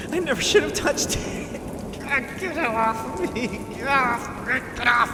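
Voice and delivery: desperate as it eats you alive; high frantic anguished cries; panicked struggle. Acted. Peter struggles with the suit.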